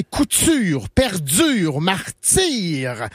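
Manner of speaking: couture, perdure, martyr with stretched last vowels and ts, dz; leaning into vowels. Shown as a demonstration. Showing newcomers how Quebec drags couture, perdure, martyr. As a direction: drag out the vowel of martyr, martsyr. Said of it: "on rentre dans la voyelle".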